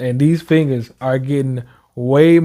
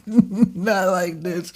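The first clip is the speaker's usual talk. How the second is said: laughing repeat; 3 semitones higher, 4 dB quieter, much slower than usual. Retold or imitated.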